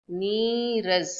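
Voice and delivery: slow नीरस with a short second a and falling tune; correct form, slowly. Shown as a demonstration. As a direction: say नीरस cleanly and slowly to settle it. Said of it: "नीरस means juiceless".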